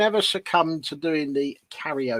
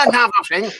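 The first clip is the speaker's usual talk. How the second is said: imitating Paul; 5 semitones higher, 4 dB louder, faster than usual. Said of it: "It's like a little toy".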